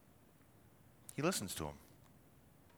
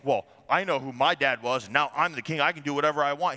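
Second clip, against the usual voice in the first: arrogant; 3 dB louder, faster than usual. Retold or imitated. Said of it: "He's arrogant here".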